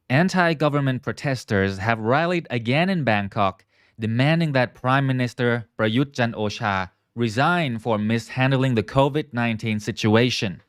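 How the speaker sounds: reading out. Real, not acted. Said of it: "I'm gonna read it out".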